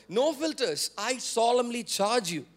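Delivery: firm, deliberate solemn charge; unfiltered, direct charge. Retold or imitated. Paul speaking to Timothy without any filter, firm and solemn. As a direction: say it straight, with measured weight. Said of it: "he speaks to Timothy without any filter".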